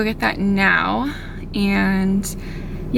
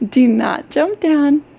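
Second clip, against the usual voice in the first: higher, slower, louder warning; firmer warning to dog; 5 semitones higher, 4 dB louder, slower than usual. Real, not acted. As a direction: sternly tell the dog to stay.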